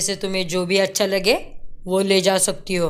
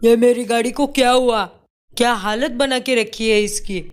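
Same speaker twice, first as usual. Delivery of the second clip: raised, angry shout over the car; 4 semitones higher than usual. Acted. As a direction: demand it angrily. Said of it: "बहुत गुस्सा होता है". (टूटी गाड़ी देखकर गुस्से में चिल्लाना)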